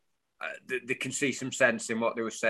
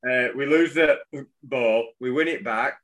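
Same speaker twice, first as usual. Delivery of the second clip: reads the manager's quote out, fuller and louder; louder quote reading; 2 semitones higher, 5 dB louder than usual. Shown as a demonstration. Reading the manager's team talk to co-host, punchy. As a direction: give the swearing quote some punch. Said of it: "I don't know why I'm doing it quietly".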